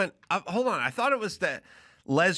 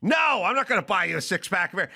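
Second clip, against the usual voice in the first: stepdad outraged; 3 semitones higher than usual. Retold or imitated. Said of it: "stepdad reply".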